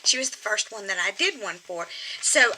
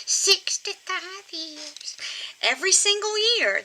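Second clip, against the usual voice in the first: squeaky ventriloquist dummy; 8 semitones higher than usual. Pretend. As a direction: drag it out proudly as the old lady. Puppet proudly repeats her marriage.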